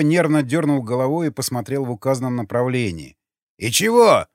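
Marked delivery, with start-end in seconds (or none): 3.6-4.3 put-on puzzled old man. A narrator's reading. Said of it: "повторил он".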